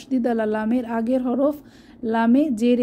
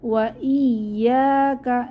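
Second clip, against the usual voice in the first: slow recitation, আইন from the throat; tajweed reading; Quran recitation; much slower than usual. Shown as a demonstration. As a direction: chant slowly. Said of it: "আইনের মাখরাজ গলার মাঝখান থেকে".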